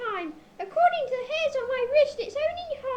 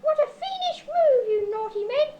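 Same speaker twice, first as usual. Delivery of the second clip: indignant protest. Acted. Tied-up victim threatens to write to the Times, indignant. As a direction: protest like a wronged gentleman.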